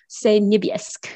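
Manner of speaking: niebiesk drawn out slowly, its final I dropped; Frenchified Polish. Retold or imitated. Imitating her son's joke French word for blue, niebiesk with a French twist. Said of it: "make it French".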